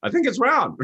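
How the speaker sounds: high, timid suggestion; Columbus. Retold or imitated. Columbus meekly tells doubters the earth is round, high and timid. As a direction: offer it sheepishly, way up high. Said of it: "a guy named Columbus comes along".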